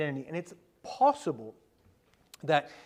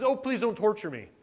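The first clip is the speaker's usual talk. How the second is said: higher-pitched imitation of pleading; mock complaining plea; 4 semitones higher than usual. Preacher imitating the torturer demon before Jesus, mock complaining. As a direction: lightly act out a whining plea. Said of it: "is complaining about the fact".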